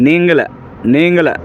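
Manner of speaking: নেঙ্গলা said clearly with a falling end; teacher modelling নেঙ্গলা; Malayalam word demo. Shown as a demonstration. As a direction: repeat নেঙ্গলা for the class. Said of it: "তোমাকে মালায়ালাম ভাষায় বলা হয়".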